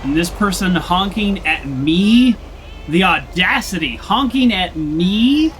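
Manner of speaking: slow, outraged disbelief; indignant. Real, not acted. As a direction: drag out the outrage. Indignant at honking driver.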